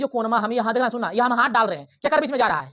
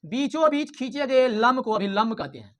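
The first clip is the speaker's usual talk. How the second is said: slow, deliberate definition; slow dictation; slower than usual. Shown as a demonstration. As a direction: spell out the definition slowly for the class. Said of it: "हम इसमें छेड़छाड़ करते हैं". (धीरे धीरे परिभाषा बोलना)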